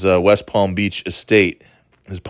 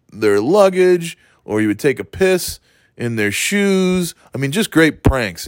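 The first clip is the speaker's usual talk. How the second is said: mock gushing praise; 4 semitones higher than usual. Mocking the wrestlers' gushing praise.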